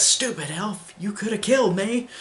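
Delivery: a quick hammed-up jab at the elf; imitating Bellatrix. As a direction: snap it out like an offended dark witch. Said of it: "Bellatrix says".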